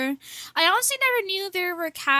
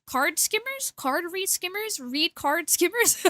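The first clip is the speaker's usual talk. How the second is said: puzzled; 4 semitones higher, slower than usual. Real, not acted. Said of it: "What the fuck do you call it?".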